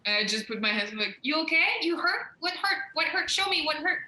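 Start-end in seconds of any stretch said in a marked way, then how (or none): 1.2-4.0 higher, anxious string of questions; worried fussing. Acted. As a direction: fuss over a hurt friend. Acted fussing over screaming friend.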